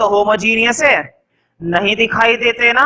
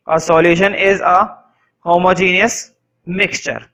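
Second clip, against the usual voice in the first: stretched-out repeat, each word drawn long; teacher repeating the definition even slower; very slow dictation; 3 semitones lower, much slower than usual. Shown as a demonstration. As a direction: repeat it slowly for the back row.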